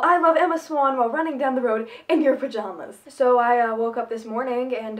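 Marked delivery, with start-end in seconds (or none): 0.0-1.0 yelled. Retold or imitated. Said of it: "I dare you to yell".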